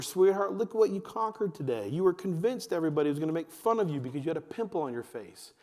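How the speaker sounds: acted parental praise; encouraging parent. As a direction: build them up like a proud dad. Voicing a parent praising the child.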